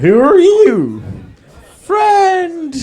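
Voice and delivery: alien voice. Acted. E T voiced meeting the kids.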